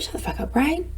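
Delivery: unvoiced hush at her brain; whispered shut up. Speaker silencing her critical brain, whispered. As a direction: whisper it firmly to your brain. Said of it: "as soon as I said it".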